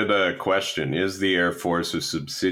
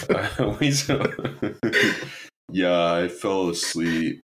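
silly impression; slower than usual. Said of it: "That was a good impression".

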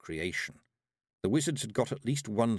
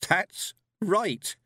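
put-on amused old witch; 11 semitones higher, 6 dB louder than usual. A narrator's reading. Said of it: "the old witch laughed".

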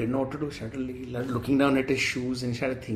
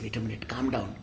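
lower, softer self-soothing; calming oneself; 6 semitones lower, 7 dB quieter than usual. Acted. Ballu steadying himself in the prison cell, mildly calming. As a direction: quietly talk yourself down. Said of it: "So he calmed down".

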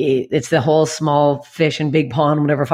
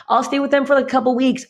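much higher, carefree; breezy naive; 8 semitones higher than usual. Retold or imitated. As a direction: toss it off lightly. Naive past self.

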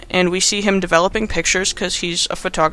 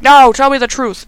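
mock demand; 6 semitones higher, 5 dB louder than usual. Gordon demanding answers from Adam.

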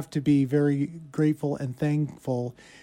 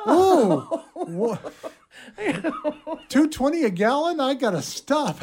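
mock excited suspect; 8 semitones higher than usual. Suspect sees cheap gas.

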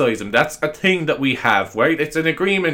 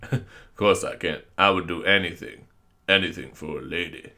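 impression of a deep-voiced singer; 6 semitones lower, 4 dB quieter than usual. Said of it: "a singer was in that episode".

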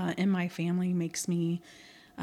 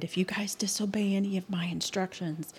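threatening grandmother; 3 semitones higher, 6 dB louder than usual. Retold or imitated. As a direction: warn them like a stern grandmother, playfully. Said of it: "she always used to threaten".

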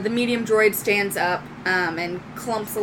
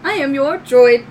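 high robot greeting; little droid; 7 semitones higher, 6 dB louder than usual. Acted. Little droid greeting its new owner, high robotic voice. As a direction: introduce yourself as a robot, name left open. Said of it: "walks up and goes".

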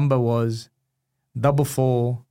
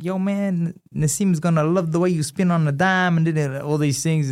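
sheikh's hype voice; 5 semitones higher than usual. Retold or imitated. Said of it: "And he's like".

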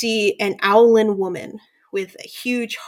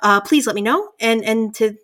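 owl innkeeper. Acted. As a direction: gush with pleased excitement, pitched up. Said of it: "So she's like".

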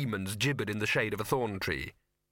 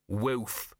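half-hearted woof. Acted.

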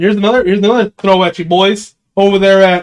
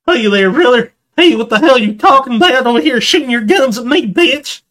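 redneck voice; 7 semitones higher than usual. Retold or imitated. Trolling players in voice chat, higher hick voice. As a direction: play a backwoods old-timer warning. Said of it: "So he was sitting there".

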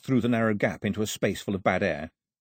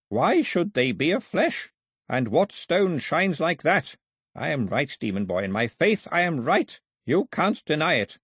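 insistent zeal; 5 semitones higher than usual. A narrator's reading. Priest defending his gods to doubter, insistent zeal. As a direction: argue like a fervent old believer.

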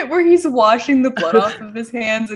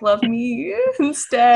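laughing quote; slower than usual. Retold or imitated. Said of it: "her kicking him and being like".

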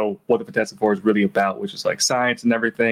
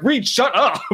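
laughing mock snap; 13 semitones higher, slower than usual. Team snapping at Reed.

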